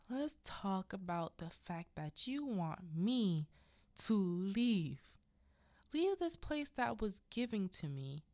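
acted, drawn-out confrontation; menacing rant. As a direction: imitate a husband taunting as he advances. Husband rants while advancing on wife.

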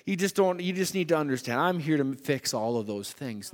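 a lightly hammed-up sweet reassurance; mock tender comforting. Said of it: "put his arm around her and say".

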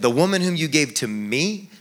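"me" at the end lifted in a rising tune; rising emphasis on the final "me"; stress on ME. Shown as a demonstration. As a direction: let the line climb to a wondering "me". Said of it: "maybe he said".

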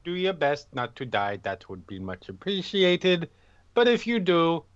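lightly voiced Drow accent, measured farewell; a hint of a Drow accent. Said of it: "I'll miss your accent".

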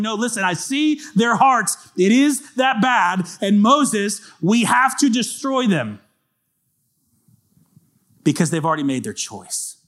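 God pressing his point to Moses, high and slow; God insisting. Acted. God telling Moses firmly, high and slow. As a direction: insist firmly, drawing each word out.

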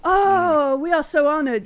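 hammed-up grateful wail; theatrical gushing. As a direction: gush as if deeply honoured. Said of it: "this theater that goes on".

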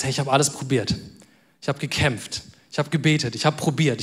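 low, subdued, weary confession; understated despair. Acted. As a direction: voice someone who has tried everything, softly. Voicing a listener's despair in crisis.

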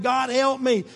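panicked shouts of help rising loud; desperate cry for help. Acted. Preacher voicing Jonah's panicked cry to God. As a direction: cry out like a drowning man.

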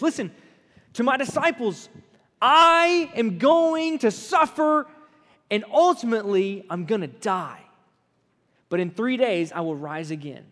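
preacher voicing Jesus gravely; serious and clear. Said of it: "he goes real serious, real clearly".

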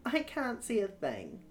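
put-on girl voice. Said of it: "she whispers".

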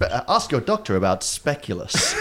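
slow, announcer-style pharma commercial read; hammed-up ask-your-doctor commercial voice; mock drug ad voice. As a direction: sell it like a TV medicine ad. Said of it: "it's not just like".

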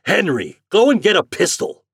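high, loud shouted order; crying out. A narrator's reading. Store owner ordering his clerk to fetch a pistol, crying out. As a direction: call out urgently to a clerk. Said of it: "cried Mister Richards".

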